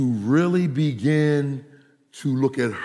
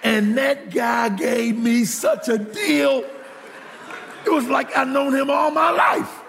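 excited boast; 10 semitones higher than usual. Real, not acted. Pastor bragging to congregation about the deal, excited. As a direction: crow about the great deal.

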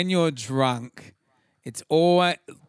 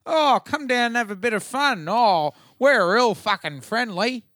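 mock tourism ad voice; 4 semitones higher than usual. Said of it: "the eighties ones where it's like".

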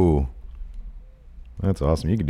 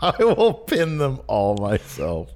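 slow mock Cena; 2 semitones higher, slower than usual. Host mimics Cena.

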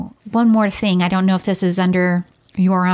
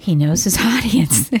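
slower, laughing through the words; amused echo; 2 semitones lower, slower than usual. Real, not acted. Co-host echoes remark about the doctor, amused laughing. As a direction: repeat it with a laugh breaking in.

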